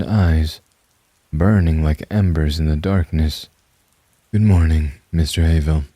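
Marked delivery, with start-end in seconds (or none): 4.3-5.8 a low, calm greeting from the dark. Acted. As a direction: greet him calmly, unnervingly. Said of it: "said a low, calm voice".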